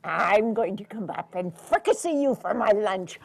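loud troll threat; troll threatens lunch. Acted. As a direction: relish the threat.

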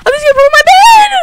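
high, loud cry of alarm; panicked yell. Real, not acted. Player seeing his bed threatened, panicked yell. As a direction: scream it in a panic.

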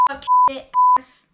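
high, loud squeal of curses; squeaky cursing yell. Shown as a demonstration. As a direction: shriek the swears out high. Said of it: "So you could say stuff like".

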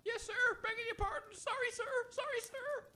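soft, high, meek sorries; cowed apology. Acted. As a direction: back away apologising in fear. Servant retreats apologising.

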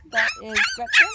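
very high squeal then a giggle; squeaky puppy talk. Real, not acted. Cooing at the puppy.

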